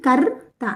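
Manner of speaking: కర్త with a vowelless ర్ held before త; half-sounded r. Shown as a demonstration. Teacher shows pupils conjunct letters, కర్త with half-said ర్. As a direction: say కర్త slowly, only half the ర, then త. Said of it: "రాని సగమే పలుకుతున్నాం".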